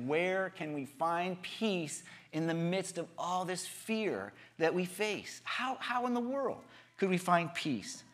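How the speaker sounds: slow, drawn-out yearning question; retold longing. The world asking where peace is, longing. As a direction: reach out wearily for an answer. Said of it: "everyone is longing for peace".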